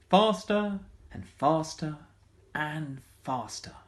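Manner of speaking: drawn-out rising excitement; building speed. A narrator's reading. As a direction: let the words race ahead. Bike speeding with the wind.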